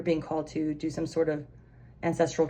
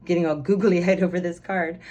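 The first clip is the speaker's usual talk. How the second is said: 1 laughing giddily; 6 dB louder than usual. Real, not acted. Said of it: "before I continue just getting all".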